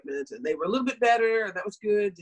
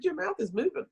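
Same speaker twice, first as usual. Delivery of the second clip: mock pointed observation; 10 semitones higher than usual. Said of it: "I said".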